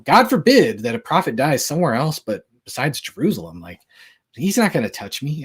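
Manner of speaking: mild sarcastic paraphrase, stressed at the start; retold sarcasm. Preacher paraphrasing Jesus's biting reply to his enemies, mildly sarcastic. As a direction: paraphrase it with a touch of biting mockery. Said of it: "He's being sarcastic".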